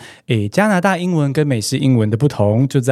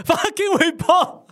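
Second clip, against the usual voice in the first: Canadian sign-off; 13 semitones higher, slower than usual. Pretend. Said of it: "加拿大比较道地的方式".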